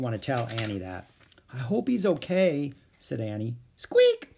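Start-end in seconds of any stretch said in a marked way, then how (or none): 1.5-2.7 a touch of hope, pitch lifted; higher, gently hopeful girl's line; mildly hopeful. Acted. Annie hoping he is okay, mildly hopeful. 3.8-4.3 very high, loud little squeak; mouse squeak. Acted. Peanut peeking out of Annie's pocket, squeaking.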